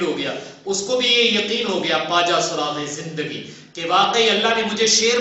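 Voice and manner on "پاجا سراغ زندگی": slow recitation. Shown as a demonstration. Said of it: "میں نے آپ سے لفظ بولا تھا".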